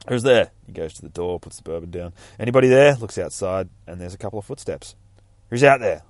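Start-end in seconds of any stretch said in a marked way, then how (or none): 0.1-0.5 loud call into the dark, higher; loud nervous call into the night. Acted. Man calls out in the dark. 2.4-2.9 loud call into the dark, higher; loud nervous call into the night. Acted. Man calls out in the dark. 5.5-6.0 loud call into the dark, higher; loud nervous call into the night. Acted. Man calls out in the dark.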